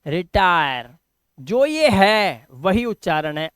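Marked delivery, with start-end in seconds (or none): 0.0-0.9 रिटायर in parts, the 'eye' vowel shown; lower-pitched रिटायर, dwelling on 'tai'; teacher repeats रिटायर to show the 'ai'; pronunciation demo. Shown as a demonstration. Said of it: "आय".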